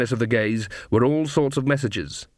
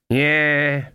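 darkly; 3 semitones higher than usual. A narrator's reading. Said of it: "said Granny darkly".

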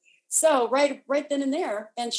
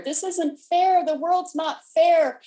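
high, slow, louder imagined protest; mock complaint; 8 semitones higher, 6 dB louder, slower than usual. Voicing what the listener will ask, mock aggrieved. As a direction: act out a drawn-out wail of unfairness.

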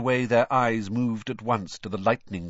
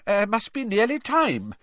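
hasty, higher and louder cut-in; quick interjection; 12 semitones higher, 5 dB louder than usual. A narrator's reading. Man interrupts a friend's boasting, speaking quickly. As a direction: break in hurriedly to change the subject. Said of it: "said Mister Weasley quickly".

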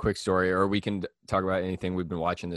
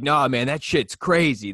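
slow, louder dorky bro voice; mock loud dork; 4 semitones higher, 5 dB louder, slower than usual. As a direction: ham up a loud swearing kid. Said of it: "kept swearing unnecessarily, like, loudly".

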